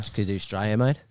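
put-on Australian twang; lightly done Australian accent. Shown as a demonstration. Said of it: "a little twang".

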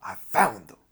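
a lightly imitated Jamaican accent, teasing; mimicking the Rasta's Jamaican accent as he cracks a joke. Rasta mocking the red sweatshirt to the whole cell, light Jamaican accent. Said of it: "in a thick Jamaican accent".

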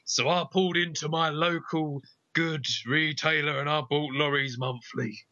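put-on trucker testimonial voice; lorry driver. Second lorry driver praises the magazine, mock testimonial. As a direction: play a second trucker in a radio ad.

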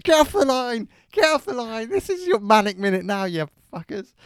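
high, loud, harried yell; frantic hammed-up shouting; shouting at callers. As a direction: shout them off the phone line. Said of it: "and I'm shouting at people".

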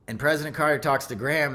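usual speaking voice

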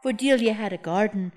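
solemn poet laureate reading; dramatic poetry recital. Acted. Poet recites her romance poem.

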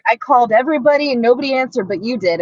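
quick, mildly whiny imitation; mock whining. Co-host imitates Joe complaining about unanswered calls, mock whine. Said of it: "Joe's all whining".

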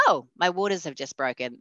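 calm, matter-of-fact announcement. Retold or imitated. Pregnant woman telling the minister her waters broke, very calmly. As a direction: break startling news without any fuss. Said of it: "I very calmly said".

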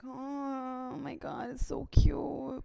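put-on melting over a cute toddler; cooing mom. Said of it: "I'm just like".

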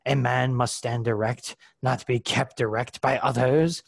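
put-on hammy Monty Python French accent. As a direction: play a pompous French sergeant with a French accent. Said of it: "a bad Monty Python French accent".

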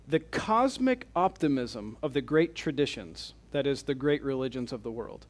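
measured quote reading with pauses; slow reading. Real, not acted. Lecturer reading the last quote aloud to the class, slowly. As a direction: read it out carefully, phrase by phrase. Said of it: "I'm gonna read these slowly".

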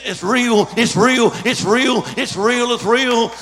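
excited repeated exclamation. Retold or imitated. Pastor shouting after wife healed.

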